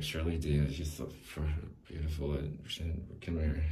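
leer it quietly, half under your breath; sloppy half-hearted creep voice trailing into a whisper. Retold or imitated. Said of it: "I don't even think I could do the creep voice".

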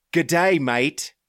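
a cheesy Australian hello drawn out; mock Aussie greeting. Host greeting the Aussie Week listeners in a jokey Australian accent. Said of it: "apologies for the g'day, mate".

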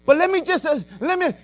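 high-pitched imitation of a pleading woman; pleading lady. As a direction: plead to be heard, imitating her. Lady's interrupted plea, retold.

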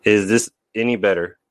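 boxed-in echoing tunnel sound; phone booth. Real, not acted. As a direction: talk like you're in a phone booth. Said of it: "now you sound like you're in a, uh, in a phone booth".

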